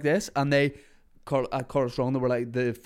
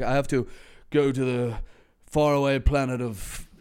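sci-fi voice. Retold or imitated. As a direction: deliver it like a spacey sci-fi line. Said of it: "I was doing that voice".

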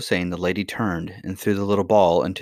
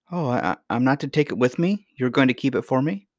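put-on slightly raised, faltering child's question; puzzled young princess; 5 semitones higher than usual. Princess asking if grandmother keeps the ball, puzzled. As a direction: lightly voice a confused little girl.

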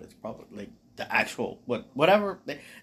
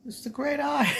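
whisper; 13 semitones higher than usual. Acted. Frodo's answer voiced.

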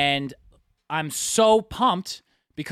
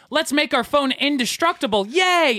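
much higher, gushing corporate cheer; mock cheerful executive; 11 semitones higher, 4 dB louder than usual. Mocking Apple designers at a meeting, higher and cheery. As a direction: play an overeager designer.

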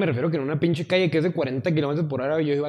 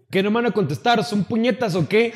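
scolding like a dad; 4 semitones higher than usual. Retold or imitated. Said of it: "los ibas regañando como papá".

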